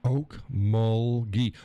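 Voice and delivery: "Okmulgee" stretched very slowly, o-k-m-o-l-g-e-e; drawn-out Okmulgee. Shown as a demonstration. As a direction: savor "Okmulgee" slowly, throat first. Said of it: "somebody from Oklahoma does when they're".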